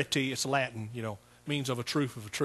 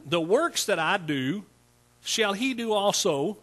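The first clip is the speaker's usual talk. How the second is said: slow reading; 4 semitones higher, slower than usual. Real, not acted. Reading scripture slowly.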